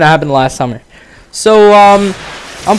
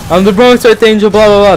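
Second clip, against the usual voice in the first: lightly pitched-up, dismissive creep voice; mocking the stranger; 6 semitones higher, 5 dB louder than usual. Vlogger brushing off the stranger's line, mildly mocking. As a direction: rattle off his line with a bored blah blah. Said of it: "And he's like".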